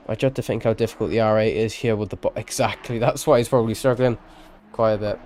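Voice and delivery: slipping into a Welsh accent; a light Welsh lilt. Real, not acted. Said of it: "I've developed a Welsh accent".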